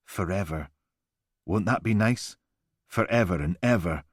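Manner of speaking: lightly voiced menacing calm; creepy soothing. Killer's voice on recording.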